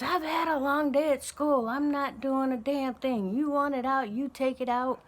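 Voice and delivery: hammed-up bratty teen voice; mouthy kid. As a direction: snap back at the parent like a spoiled kid. Child mouthing off about trash.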